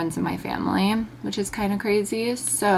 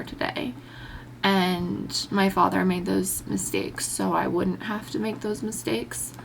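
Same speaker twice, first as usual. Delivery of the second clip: crying. Real, not acted. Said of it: "sorry, I'm crying".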